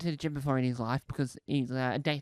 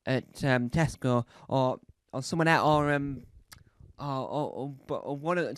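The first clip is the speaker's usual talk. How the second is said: ordinary talk, nothing marked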